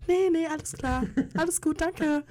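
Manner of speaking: lightly high, polite brush-off; white girl voice. Shown as a demonstration. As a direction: put on a sweet polite voice. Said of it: "die White Girl Voice auf".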